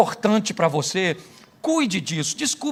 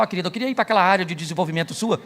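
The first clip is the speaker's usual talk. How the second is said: quick, laughing tease to the wife; playful tease to wife; 2 semitones lower than usual. Pretend. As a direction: poke fun at her gently through laughter. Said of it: "vou conversar com minha mulher e falar".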